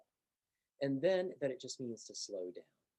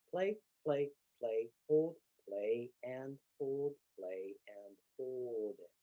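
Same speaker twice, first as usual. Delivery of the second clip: slowing down; slower than usual. Shown as a demonstration. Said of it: "in the context of slowing down".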